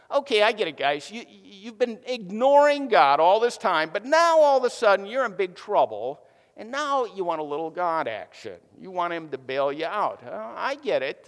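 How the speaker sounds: mock them with a knowing sneer; sarcastic. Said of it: "he becomes sarcastic with him".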